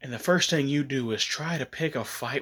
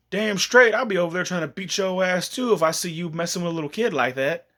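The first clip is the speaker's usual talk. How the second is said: indignant; 4 semitones higher than usual. Real, not acted. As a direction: get fired up. Speaker indignant rant.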